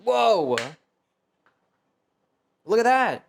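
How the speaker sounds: high, loud burst of delighted surprise; amazed whoa. Real, not acted. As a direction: gasp at it like it's a magic trick. Spoon peels the ginger.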